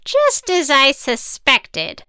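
slow witch voice; knowing, ominous witch. Acted. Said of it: "the witch said".

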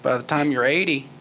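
lightly voiced folksy president impression; a hint of a drawling Texan politician; George W. Bush. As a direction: play a president explaining, lightly put on. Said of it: "George W. Bush mode".

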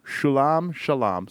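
Shulam slowly as shoo-LAHM, then shuh-LAHM; trying out pronunciations. Shown as a demonstration. Podcaster guessing at an artist's name, trying out Shulam two ways. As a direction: try Shulam two ways, first vowel full, then reduced. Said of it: "Something like that".

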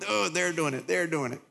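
a hint of a sly whisper; hushed, needling inner voice; whispering accuser voice. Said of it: "this voice is in my ear going".

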